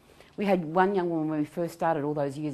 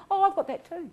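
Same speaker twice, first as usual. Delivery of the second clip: self-absorbed friend; 13 semitones higher, 3 dB louder than usual. Retold or imitated. Friends making it about themselves.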